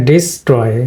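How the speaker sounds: ডিস্ট্রয় with "i" in the first syllable; di-STROY for ডিস্ট্রয়, falling on the second syllable; correct pronunciation. Shown as a demonstration. Teacher restating the right form after the mistake, correct pronunciation. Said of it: "এখানে ডিস্ট্রয়".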